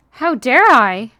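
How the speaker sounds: mock indignation. Mock scolding herself.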